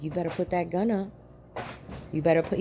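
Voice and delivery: cool warning, keep it low-key; real calm. Retold or imitated. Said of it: "Real calm, real calm".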